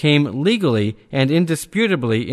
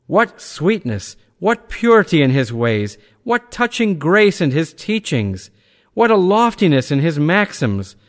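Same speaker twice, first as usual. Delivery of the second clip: higher-pitched, exclaiming oratory; rhetorical eulogy; 4 semitones higher than usual. A narrator's reading. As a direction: build each phrase in rising admiration. Reading Rousseau's exclaiming eulogy aloud.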